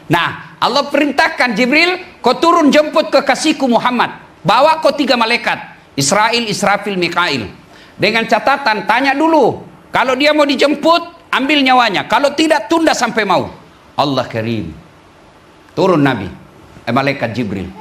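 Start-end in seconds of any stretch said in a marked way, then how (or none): 1.6-13.5 divine command. Pretend. God sending Jibril down to fetch Muhammad, lightly commanding. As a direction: give the order with calm authority.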